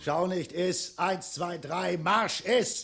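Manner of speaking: loud bullying command; loud barked orders. Acted. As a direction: drill him like a sergeant. Dragon orders wanderer to eat.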